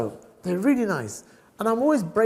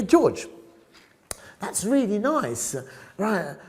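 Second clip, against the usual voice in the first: gushing shop staff; 6 semitones higher, slower than usual. Retold or imitated. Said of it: "I hear".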